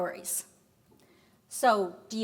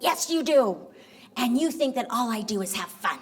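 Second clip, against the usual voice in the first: exasperated retort; 2 semitones higher, 3 dB louder, faster than usual. Retold or imitated. Wife contradicts husband mid-quarrel, exasperated. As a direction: cut him off with an indignant mock outburst.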